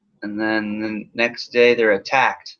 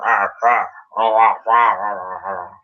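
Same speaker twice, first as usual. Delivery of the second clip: caveman grumbling. Retold or imitated. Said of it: "They just grumble at him".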